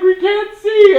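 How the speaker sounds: goons. Retold or imitated. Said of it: "they're like".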